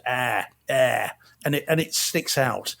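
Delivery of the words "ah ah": put-on "ah, ah" as broad Boston accent vowels; mock a Boston accent with bare "ah, ah"; imitated Boston vowel. Reviewer mocking an actress's accent, broad Boston "ah, ah". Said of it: "it is just".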